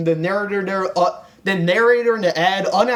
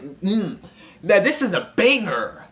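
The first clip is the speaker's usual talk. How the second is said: punchy mock-intense music fan; more intense approval. Imitating listeners to a good song, a little more intense. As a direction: lean hard into BANGER. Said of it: "a little more intense".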